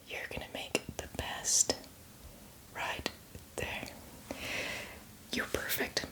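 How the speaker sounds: barely-there slow whisper; tender hushed praise. Acted. Zombie guide admiring the newcomer, tender faint whisper. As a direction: praise them in the softest whisper.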